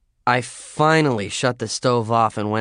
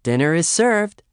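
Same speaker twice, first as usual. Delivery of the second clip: formal announcement; 8 semitones higher, 5 dB louder than usual. Acted. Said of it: "she announced".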